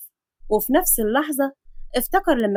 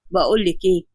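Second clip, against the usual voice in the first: curt doctor; 5 semitones lower than usual. Acted. Adam cuts her off.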